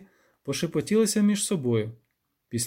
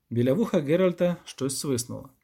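usual speaking voice

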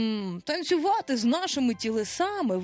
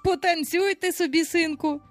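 higher, indulgent fatherly consent; light, easy-going permission; good-humoured; 7 semitones higher than usual. A narrator's reading. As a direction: grant it cheerfully, like a father. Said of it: "Він був у чудовому гуморі".

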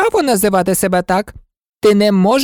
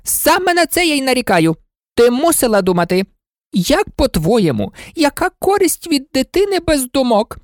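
an irritable monarch lecturing; impatient; 10 semitones higher than usual. Acted. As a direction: cut in and scold impatiently. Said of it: "нетерпляче обірвала її".

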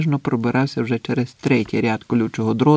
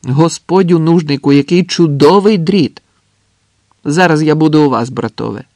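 shouted praise; 5 semitones higher, 7 dB louder than usual. A narrator's reading. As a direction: holler exaggerated admiration. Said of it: "крикнув Андрес".

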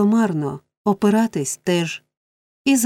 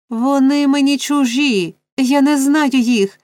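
high, slow, pleading protest; desperate cry; 6 semitones higher, 4 dB louder, slower than usual. A narrator's reading. Oliver struggling from a stranger's grip, desperate cry. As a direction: cry out high, drawing out the words. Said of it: "кричав Олівер".

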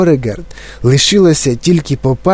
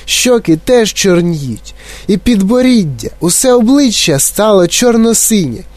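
high-pitched horrified exclaiming; wailing; 7 semitones higher than usual. A narrator's reading. Mother watches the face turn blue-black, wailing. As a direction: lament each new discovery. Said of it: "лементувала пані Борегард".

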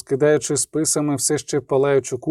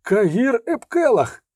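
higher and slow, full name in disbelief; astonished call; 8 semitones higher, slower than usual. Acted. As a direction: stretch the name out, stunned to see him. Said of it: "крикнув здивовано". (повільний здивований вигук, значно вище)

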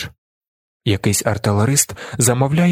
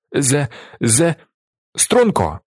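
higher barked drill command; 4 semitones higher, slower than usual. A narrator's reading. Willi orders the hiccuping Tjaden to attention, commanding bark. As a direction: snap him to attention like a sergeant. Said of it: "командує Віллі".

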